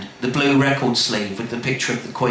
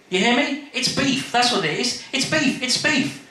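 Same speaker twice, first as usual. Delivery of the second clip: high, giddy raving about beef; high-pitched giddy raving; manic enthusiasm; 11 semitones higher than usual. Acted. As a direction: rave like you've gone mad. Lee's mad enthusiasm.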